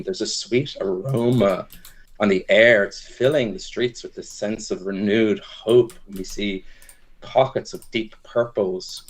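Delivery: slow, dramatic storytelling voice; GM scene narration. Acted. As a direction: set the scene like an epic tale. Game master narrates scene.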